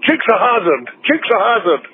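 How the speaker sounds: high-pitched Scottish spell-casting cry; Scottish Harry Potter. Acted. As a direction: cast it like a spell, "Jooks-a-Hazzard!". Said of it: "like a Scottish Harry Potter".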